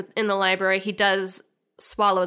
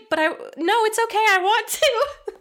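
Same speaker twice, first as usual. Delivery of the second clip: mock lovesick heroine, pitched up; breathy Betty pleading, laughing; 12 semitones higher, 4 dB louder than usual. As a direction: play her begging him through giggles. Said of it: "she's just like".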